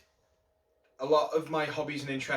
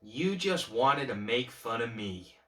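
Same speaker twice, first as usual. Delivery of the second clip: Joker's bitter accusation. Acted. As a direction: build from held-back hurt to an angry jab. Joker accuses host, building again.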